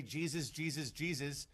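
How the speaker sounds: soft, pleading Jesus, Jesus; mock scared plea. Imitating a scared believer, soft plea. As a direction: mutter the name like a charm. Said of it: "you can't just say".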